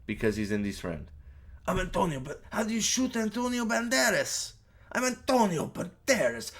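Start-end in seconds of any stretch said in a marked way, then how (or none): 1.7-6.5 high-pitched mock-indignant star voice; hammed-up outrage at being shot; Antonio Banderas. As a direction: protest in a high, put-on voice. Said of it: "Antonio Banderas gets shot in the".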